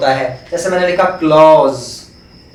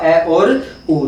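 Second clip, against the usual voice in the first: slow spelled-out sounds; much slower than usual. Shown as a demonstration. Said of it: "transcription क्या हुआ?".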